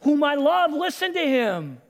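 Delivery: mildly booming divine declaration; booming God. Acted. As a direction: announce it from heaven. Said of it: "God's voice booms".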